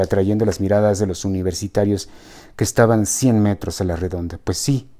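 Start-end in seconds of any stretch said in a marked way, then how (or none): 4.4-4.9 meek reply. Acted. Ricardo cornered by his girlfriend, meek. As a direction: answer like a cowed boy. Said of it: "en tono de calzón sin inspector".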